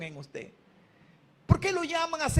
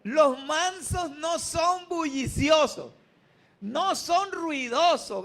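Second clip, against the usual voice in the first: louder, slow and emphatic; preacher repeating louder for the crowd; 3 semitones higher, 3 dB louder, slower than usual. Shown as a demonstration. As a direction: say it strong, leading the crowd. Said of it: "díganlo fuerte".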